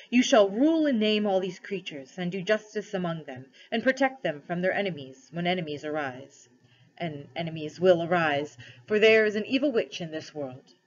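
a measured royal proclamation, lightly acted; lightly voiced lion ruler, solemn. Aslan addresses cabby and wife as first rulers, lightly solemn. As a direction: proclaim it with mild lion-king gravity.

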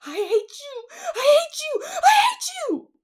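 escalating high shouts, last one drawn out; child in a stamping rage; choked, furious screams. A narrator's reading. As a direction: scream it harder each time. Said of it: "she cried in a choked voice".

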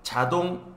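자동 claro y alto; demostración coreana. Shown as a demonstration. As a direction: marca 자동 como modelo. (pronuncia "자동" con claridad)

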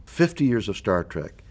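host's promo sign-off. Acted. Host closing the interview with a live show plug, promo sign-off.

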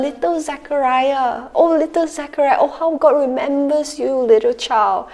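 put-on high, sing-song baby talk; cooing over a baby. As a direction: coo at the newborn.

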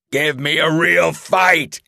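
a brute taunting its prey; monster roaring. A narrator's reading. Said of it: "he roared".

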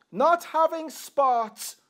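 slow, leaning on "not having spot"; stress on not having spot. Shown as a demonstration. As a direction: press each word of "not having spot" slowly. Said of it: "the emphasis this afternoon is not having spot".

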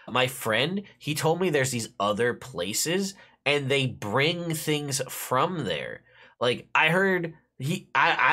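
lightly voiced young boy passing on gossip; kid's voice. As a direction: play the excited little kid spreading rumours. S0 voices kid Pip.

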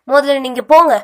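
angry order. A narrator's reading. Girl ordering the man away, loud and angry. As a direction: order him off, loud and high. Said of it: "அதே ஆக்ரோஷத்துடன்".

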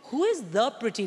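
high, exasperated retort to mum; mock outrage at a too-specific answer. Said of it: "I was like".

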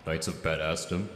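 dramatic trailer announcer title; movie trailer voice. Shown as a demonstration. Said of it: "could you just say Knights of Badassdom for us".

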